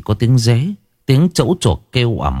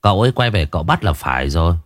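deep voice; faster than usual. Acted. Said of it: "tôi mới trầm giọng".

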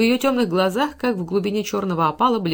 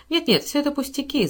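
lightly voiced girl protesting, a bit higher; a hint of a modest girl waving off praise; 7 semitones higher than usual. A narrator's reading. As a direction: brush off the praise with a quick lifted protest. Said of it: "запротестовала она".

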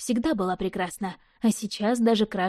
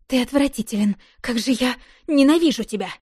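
breathless fury; 3 semitones higher, 3 dB louder than usual. A narrator's reading. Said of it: "задыхаясь от ярости".

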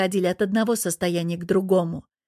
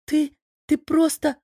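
stammering with outrage; 6 semitones higher than usual. A narrator's reading. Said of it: "аж заикается от возмущения".

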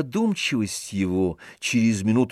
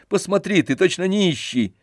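teasing; 7 semitones higher than usual. A narrator's reading. Teasing the ragged servant.

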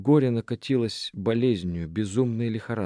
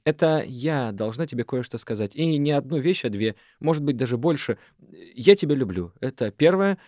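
взволнованно; 3 semitones higher, 4 dB louder than usual. Acted. Шана взволнованно признаётся.

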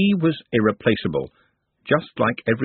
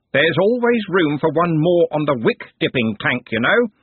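pompous servant warning; threatening candle knave; 6 semitones higher than usual. Acted. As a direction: menace the apprentice with a job. Smeems threatens.

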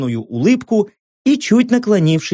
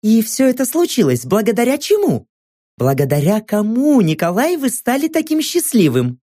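TV host voice; 5 semitones higher than usual. Acted. Host's leading question.

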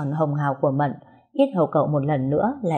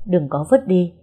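hasty loud objection. Acted. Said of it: "vội gàn lại".

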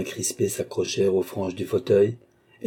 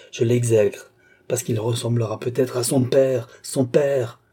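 put-on scene: sister protests her hatred of the child to Philippe, bitter outburst; bitter, emphatic protest; 3 semitones higher than usual. Spit out the hatred, moderately raised voice.

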